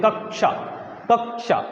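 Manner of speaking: कक्षा with the half क pushed out of the mouth; कक्षा, the middle क clearly released. Shown as a demonstration. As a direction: say कक्षा letting the half क come out. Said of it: "मुख से बोल के देख".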